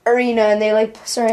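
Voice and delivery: talking through hiccups. Real, not acted. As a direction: hiccups breaking the words. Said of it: "I got the hiccups".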